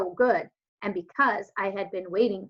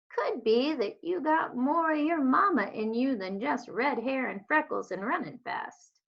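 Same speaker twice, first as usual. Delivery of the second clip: lightly voiced old woman, gentle and knowing; a hint of a wise old neighbor musing; old Southern woman; 4 semitones higher than usual. Gloria tells the girl she's like her mama, lightly voiced old woman.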